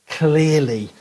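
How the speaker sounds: "clearly" set apart and carefully articulated; clear enunciation. Shown as a demonstration. Telling how mum taught clear speech, "clearly" enunciated. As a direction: pronounce "clearly" crisply after a pause. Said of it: "learn to speak".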